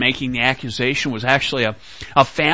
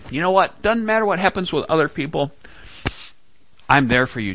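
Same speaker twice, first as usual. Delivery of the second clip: higher, fast, cocky promise; emphatic boast; 5 semitones higher, faster than usual. Retold or imitated. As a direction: boast with full confidence. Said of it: "so emphatic in saying".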